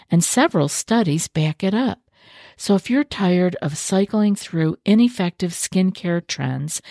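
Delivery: upbeat sponsor read. Acted. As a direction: read the ad like a host.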